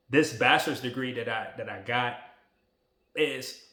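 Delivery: emotion rising until "wow" comes out on a breathless sigh; fighting back tears over the degree; choked up. Real, not acted. Vlogger recalling his degree, overcome and sighing. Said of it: "I'm still emotional about it".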